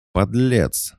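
high, furious cry of outrage; indignant shriek; outraged cry. Acted. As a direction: slap him with the word. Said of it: "выдохнула она".

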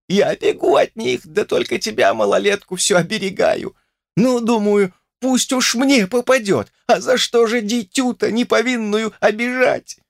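put-on high, whining old crone grumbling bitterly; a wronged old witch railing at villagers; old woman's lament. A narrator's reading. Grandmother to Olesya, high whining lament.

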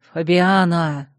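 loud calling out her name; sharp call. Acted. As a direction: shout her name to stop her. Duke shouting her name.

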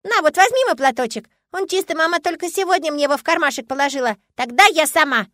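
put-on a small girl fussing over a crying adult; child voice, busy and caring; fussing little girl. A narrator's reading. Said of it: "От её заботливых причитаний".

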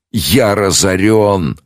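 slow, moaning lament; plaintive groan. A narrator's reading. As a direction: wail over his ruin. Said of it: "жалобно простонал".

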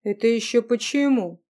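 indignant. Acted. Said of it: "возмутился Юлиан".

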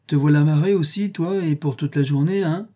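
lightly acted schoolboy teasing; teasing boy. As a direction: needle a friend who is stuck with chores. Boy teasing Tom in story.

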